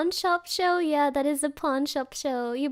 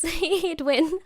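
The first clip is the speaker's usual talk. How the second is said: laughing. Real, not acted. Laughing verdict.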